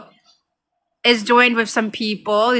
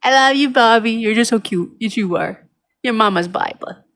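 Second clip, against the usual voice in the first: cutesy cat talk. Real, not acted. Owner fussing over her beloved cat, cutesy. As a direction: coo lightly over your cat. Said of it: "a little too cutesy with the way I talk".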